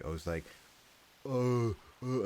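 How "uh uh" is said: "Uh, uh" pushed out louder and higher; practised Aussie vowel. Shown as a demonstration. Learner sounding out an Aussie vowel, forced "Uh, uh". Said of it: "I don't force".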